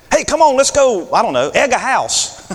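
put-on high, eager kid voice with a laugh; goading buddy, playful; a kid urging his friend into mischief, high and laughing; kid egging on. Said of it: "you always wanted somebody to get in trouble".

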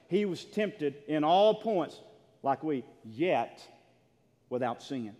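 slow, loud, drawn-out preaching; slow emphasis. Acted. Pastor to congregation, slow emphatic preaching. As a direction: lay each word down slowly. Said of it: "slow emphatic preaching".

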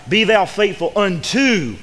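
"unto" drawn out slowly for emphasis; slow down and lean on "unto"; stress on "unto". Shown as a demonstration. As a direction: make "unto" stand out, stretched. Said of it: "not until".

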